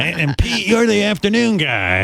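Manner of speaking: raspy Cajun coach impression. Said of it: "he sounded kinda like that too".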